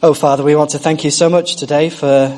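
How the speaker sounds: earnest prayer voice addressing God. Acted. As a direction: pray it sincerely to the Father. Opens a prayer.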